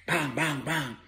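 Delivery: high, soft imitated gunshots; gunfire sound effect. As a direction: pop off three light, high shots.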